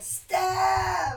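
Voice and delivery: yelling across the room. Retold or imitated. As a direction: call up the stairs. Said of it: "But they yelled".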